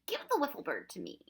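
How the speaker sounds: high-pitched, impatient demand; snapped command. A narrator's reading. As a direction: order the child to hand it over. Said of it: "the Proc snapped".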